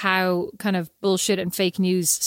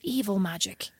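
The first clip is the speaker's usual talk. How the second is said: hushed, breathless whisper of evil magic; spooky whisper; 7 dB quieter, slower than usual. Retold or imitated. Mother mocking the Irish spells on TV, in a spooky whisper. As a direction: whisper it like a dark secret. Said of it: "I was like".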